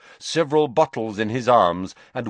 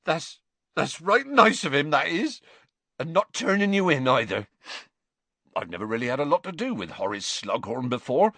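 lightly voiced touched Hagrid; moved by kindness, mild; 5 semitones higher than usual. A narrator's reading. To Harry about Slughorn, mildly touched. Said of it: "astonished and touched".

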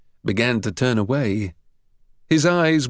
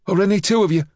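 defiant; 8 semitones higher, much faster than usual. A narrator's reading. Jimmy backing Harry.

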